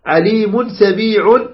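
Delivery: "عليم" and "سميع" each end on "un"; tanween endings. Shown as a demonstration. Teacher illustrates connected reading, sounded tanween. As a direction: sound the nun, aleemun, samee'un, rising. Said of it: "لكن عند الوصل أقصد".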